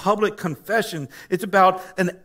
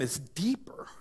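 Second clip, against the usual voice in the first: whisper; 10 dB quieter than usual. Real, not acted. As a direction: drop to a hushed whisper. Pastor dropping to a whisper.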